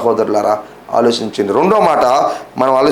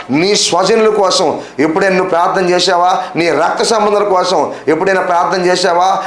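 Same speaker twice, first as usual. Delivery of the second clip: raised-pitch, rhythmic volley of questions; insistent preaching; 4 semitones higher than usual. Real, not acted. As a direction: press the congregation question after question. Preacher presses listeners with questions. (గట్టిగా నిలదీస్తూ ప్రసంగం)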